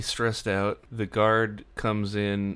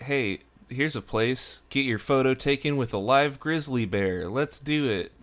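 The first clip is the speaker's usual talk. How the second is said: raised pitch, mock-excited tourist; eager suggestion; 5 semitones higher than usual. Travellers spot a grizzly bear photo stop, eager and higher-pitched. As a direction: imitate eager sightseers spotting an attraction. Acted travellers spotting a roadside attraction.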